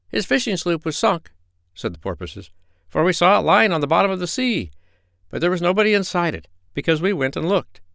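high, bright sea-creature voice; friendly porpoises call up from the water; chattering porpoises. A narrator's reading. Porpoises answer the doctor at the rail, high and eager.

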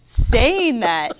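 laughing plea. Real, not acted. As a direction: laugh while begging. Co-host begging between laughs.

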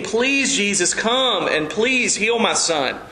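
slow, understated begging plea; acted pleading. Desperate father on his knees to Jesus, acted pleading. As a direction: beg for help, lightly acted. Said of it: "begging and pleading".

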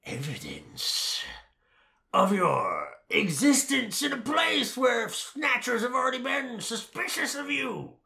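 drawn-out, high, incredulous scolding; loud mock outrage, stretching the words; exasperated rant. Ranting at characters who returned to the snatchers, exasperated.

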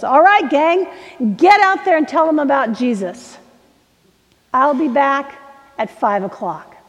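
rally the gang out of the bus door; rousing send-off. Acted. Professor sending students out to tell about Jesus, rousing call.

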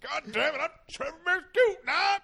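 high, laughing backcountry Southern voice; Southern accent. Pretend. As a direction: ham up a Southern yokel. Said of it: "backcountry Southern voice now".

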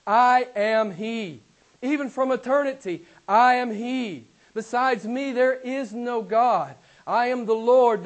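measured, emphatic scripture declamation; weighty declarations with stretched key words; God's proclamation. Acted. Preacher relating God's words from Isaiah, proclaiming with authority. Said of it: "I love it when my Father talks like this".

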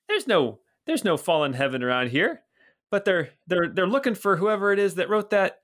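put-on high, hearty old watchman greeting a friend; Bert the old guard. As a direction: boom out a cheery hello as a portly guard. GM continues Bert's voice.

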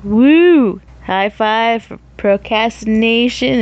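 happy whoop; cheer. Real, not acted. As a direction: whoop like you're celebrating. Cheering own procrastination.

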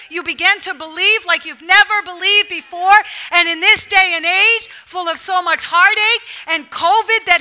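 insistent, building exhortation; rousing preaching. Acted. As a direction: urge the whole congregation to believe. Rises into exhortation.

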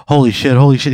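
mildly panicked repeat; freaking out. Acted. Husband reacting to wife's killing, mild mock freak-out. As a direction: raise the voice a little, mock panic. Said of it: "He's, like, freaking out".

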